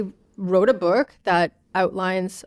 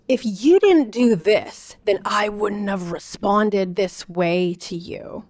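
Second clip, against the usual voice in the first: slow, pointed blaming voice, stretched out; blaming parent; slower than usual. Retold or imitated. Parent scolding an upset child, slow and blaming. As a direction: lay the blame back on the child, slowly. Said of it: "Blaming the kid for the parent's emotional dysregulation".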